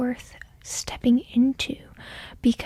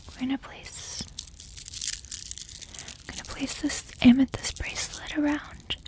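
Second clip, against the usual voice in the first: whispering. Real, not acted. ASMR tarot whisper.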